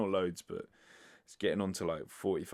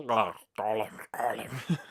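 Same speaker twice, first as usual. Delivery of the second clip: unvoiced throaty creature whisper; Gollum impression; slower than usual. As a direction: rasp it out like Gollum. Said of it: "That's a terrible impression".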